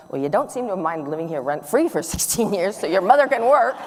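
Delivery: sarcastic snap. Retold or imitated. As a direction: bite back at the teenage son with sarcasm. Angry retort she almost said.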